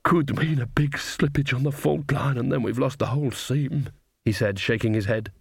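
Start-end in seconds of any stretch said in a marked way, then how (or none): 0.0-3.9 lightly voiced glum miner dwarf; a touch of a dwarf bemoaning bad news; despondent dwarf.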